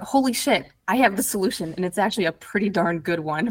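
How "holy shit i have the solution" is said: sudden realization. Retold or imitated. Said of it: "I went".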